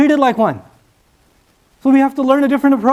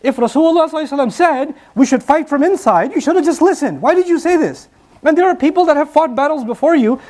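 older companions chiding the eager youths, half-acted; retold scolding; 5 semitones higher than usual. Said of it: "yelled at the younger ones and said".

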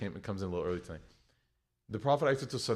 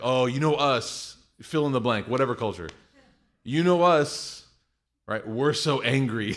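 mock angry voice; 6 dB louder than usual. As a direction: ham up the angry stereotype. Mocking angry people's catchphrase.

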